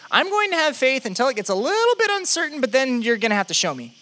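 high-pitched, then dropping back; lightly acted hedging believer; conditional believer. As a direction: declare faith brightly, then attach a condition. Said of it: "That's a lot of us in faith".

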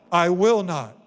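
"will" hit and held, phrase slowed; stress on will. Shown as a demonstration. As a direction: lean hard on "will" in "I will not". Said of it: "Third time".

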